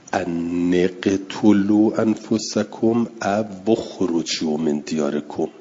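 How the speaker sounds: «اقتلوا» with kasra, «اخرجوا» with damma, slowly; slow recitation: «ان اقتلوا» with kasra on nun, «او اخرجوا» with damma on waw; vowel readings shown. Shown as a demonstration. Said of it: "یکی را به کسر خوند، یکی را به ضم". (قرائت آهسته با کسره و ضمه)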